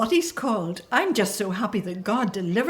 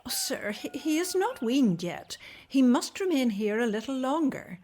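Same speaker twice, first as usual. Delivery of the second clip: high, frightened pleading; 5 semitones higher than usual. Acted. Mother begs the soldier to leave her son, frightened plea. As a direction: beg him to wait.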